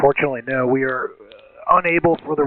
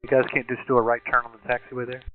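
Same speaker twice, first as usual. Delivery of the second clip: tinny cockpit radio call; air traffic control radio. Real, not acted. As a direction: pilot talking over the radio. Recorded pilot radio call.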